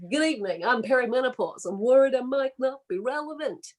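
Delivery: bad lounge singer. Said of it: "the world's shittest lounge singer".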